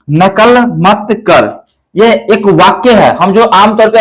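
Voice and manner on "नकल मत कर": नकल मत कर said slowly, word by word; slow model sentence. Shown as a demonstration. Teacher reading the sentence for pupils, slow and clear. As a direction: read नकल मत कर out slowly from the board. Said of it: "यहाँ पे आप सामने देख सकते हैं".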